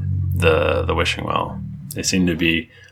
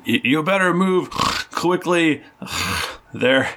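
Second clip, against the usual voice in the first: higher, hurried warning; urgent NPC voice; 9 semitones higher than usual. Acted. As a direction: warn them to hurry. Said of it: "they go".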